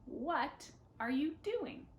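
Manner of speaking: slow, clear question for learners; teacher modelling a question; slow model question. Shown as a demonstration. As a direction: model it slowly. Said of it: "starts a conversation".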